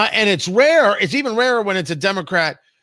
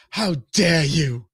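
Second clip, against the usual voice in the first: Greta Thunberg voice; 2 semitones lower, slower than usual. Retold or imitated. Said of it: "You gotta say it in Greta Thunberg voice".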